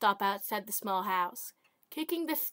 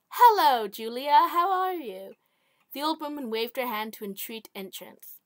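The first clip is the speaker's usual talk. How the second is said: put-on old woman voice; 3 semitones higher than usual. Old widow greets visitor.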